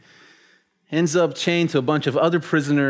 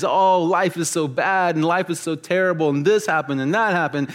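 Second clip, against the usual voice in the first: mild mock whining; 3 semitones higher than usual. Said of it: "moaning and whining".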